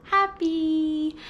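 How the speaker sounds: beaming, stretched-out word; acted happy. Shown as a demonstration. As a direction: show toddlers happy with a smile. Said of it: "Now let's act happy".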